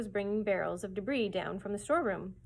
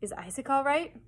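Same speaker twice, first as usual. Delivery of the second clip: breathless; 5 semitones higher, 5 dB louder than usual. A narrator's reading. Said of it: "Rush asked breathlessly".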